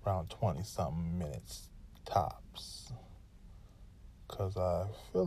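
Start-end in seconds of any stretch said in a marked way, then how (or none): 0.1-2.9 whispered aside. Real, not acted. Quiet aside about show length.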